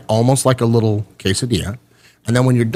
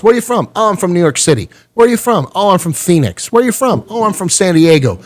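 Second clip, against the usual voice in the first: mock small talk; 5 semitones higher than usual. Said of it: "You ask somebody else".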